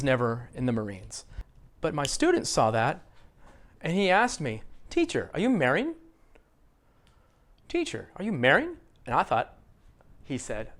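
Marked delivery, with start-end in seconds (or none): 4.9-8.7 "married" stressed on "mar", rising steeply as a question; higher questioning voice, "married" weighted on its first syllable. Retold or imitated. Student asking teacher about Marines logo, stress on first syllable. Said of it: "he didn't stress the right syllable".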